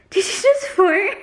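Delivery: high, squeaky question through laughter; laughing. Real, not acted. Asking companion about a fart, laughing. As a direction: crack up while asking.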